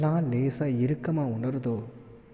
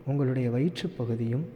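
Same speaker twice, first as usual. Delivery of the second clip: calm meditation guide with long pauses; guided meditation. Acted. Meditation teacher guiding listeners to relax and follow their breath, guided meditation. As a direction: lead them gently into relaxation, leaving room to breathe.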